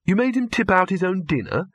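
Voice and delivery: shocked, rising disbelief; horrified. A narrator's reading.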